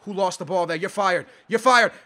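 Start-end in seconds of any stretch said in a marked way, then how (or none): 1.5-1.9 raised, emphatic voice; louder dismissal. Real, not acted. Gamer fires player who lost the ball, raised voice. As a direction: repeat it louder to drive it home.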